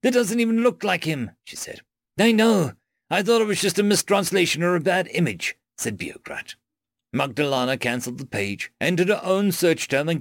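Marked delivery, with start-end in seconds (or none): 0.0-1.3 amused. Acted. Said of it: "and laughed". 2.2-5.6 excited. Acted. Excited alien character.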